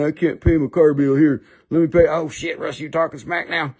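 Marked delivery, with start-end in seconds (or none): 0.0-2.1 mock-pleading character voice; put-on seller voice. Seller short on bill money, mock-pleading put-on voice. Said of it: "we talk like this".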